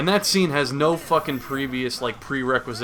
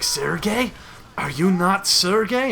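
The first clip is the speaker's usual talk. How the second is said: higher, questioning mock Russian accent; 6 semitones higher, slower than usual. Rescued Russian questioning the hero, in a mock Russian accent. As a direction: play a puzzled Russian with a light accent. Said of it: "turns out to be a Russian".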